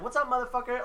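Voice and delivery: high, cocky ambush taunt; spring it on him with a mock-tough sneer. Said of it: "I was like".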